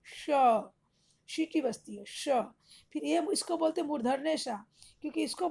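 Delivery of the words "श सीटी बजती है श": श said with the tongue on the palate, with a whistling hiss; demonstrating श. Shown as a demonstration. Teacher shows the class how to make the sound श. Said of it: "सटा करके बोलिए श".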